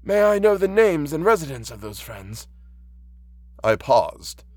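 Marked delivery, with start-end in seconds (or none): 0.0-2.5 put-on high-pitched, gentle old blind man; higher voice of a concerned elderly listener; kindly old man. Old man questions the visitor.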